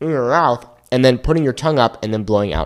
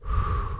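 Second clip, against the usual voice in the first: steady breath of air through the mouth; slow blown-out breath; 11 dB quieter than usual. Shown as a demonstration. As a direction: blow air out gently over the tongue. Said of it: "So let's just blow out air".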